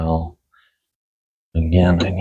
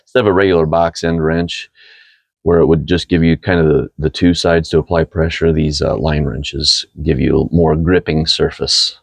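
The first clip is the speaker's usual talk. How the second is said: growly morning voice. Real, not acted. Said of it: "You got your growly morning voice on".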